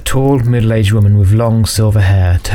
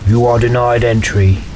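portentous rasp; 2 semitones higher than usual. Acted. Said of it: "intoned again in its portentous rasp".

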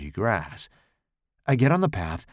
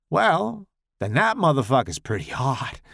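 crude Tommy voice; 3 semitones higher than usual. Acted.

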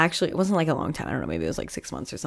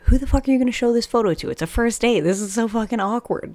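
higher and fast, exasperated rant; exasperated disbelief; 5 semitones higher, faster than usual. Retold or imitated. To herself about the date's photo, fast and exasperated. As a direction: rattle off her disbelief. Her disbelieving reaction at the table.

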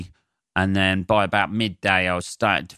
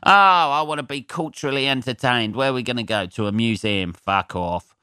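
mock Burnley local; 3 semitones higher than usual. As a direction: play a bored local mocking culture. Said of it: "people love looking round them".

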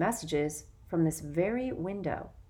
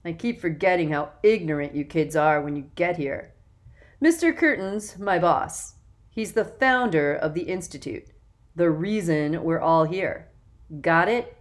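put-on loud, self-important young man; bossy older boy; 5 dB louder than usual. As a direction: lecture the new kids, puffed up. Jackson condescends to boys.

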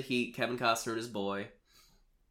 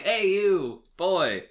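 put-on higher, louder shout at a kid; mock yell; 8 semitones higher, 7 dB louder, much slower than usual. Podcaster imitates store lady yelling at the boy, louder and higher. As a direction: call out the boy like a cranky clerk. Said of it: "she was just like".

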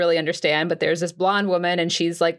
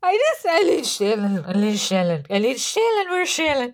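panicked pleading; 3 semitones higher than usual. Acted. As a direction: beg for help like you're drowning. Panicked clerk calls for Shannon.

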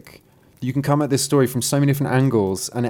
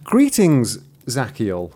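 hollow voice; slower than usual. Acted. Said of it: "says in a hollow voice".

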